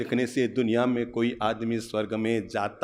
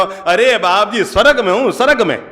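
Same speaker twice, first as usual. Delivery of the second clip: put-on raised, glowing voice of a contented old woman; happy old mother; 7 semitones higher, 6 dB louder than usual. Old mother telling the monk she is in heaven, raised and glowing. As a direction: beam with pride as the old mother.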